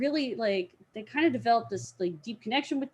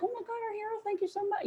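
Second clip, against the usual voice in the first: swooning thanks; 11 semitones higher, 7 dB quieter, much faster than usual. Retold or imitated. Girls thanking their rescuer.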